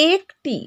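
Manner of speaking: "একটি" with a drawn-out close e; clear "e" vowel. Shown as a demonstration. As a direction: demonstrate "একটি" as eek-ti, syllables apart. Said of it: "একটির ক্ষেত্রে আমরা এ উচ্চারণ করছি". ("একটি"-র এ টেনে স্পষ্ট উচ্চারণ)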